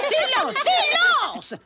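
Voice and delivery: calling for silence. Acted. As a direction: cut through the classroom noise. Teacher quiets the noisy class.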